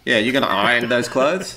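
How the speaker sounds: "iron" as "eye-un" in an everyday question; swallowed R. Shown as a demonstration. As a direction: let the R vanish in "iron". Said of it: "We swallow it".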